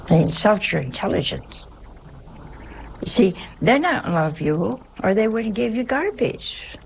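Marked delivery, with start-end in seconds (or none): none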